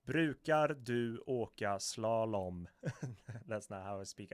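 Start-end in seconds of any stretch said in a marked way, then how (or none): 0.1-2.7 slowed right down, every word of "Brukar du åka slalom" drawn out and loud; deliberate, stretched-out Swedish, syllable by syllable; slow reading. Shown as a demonstration. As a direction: read it out very slowly for learners. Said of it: "I'm gonna read it slowly".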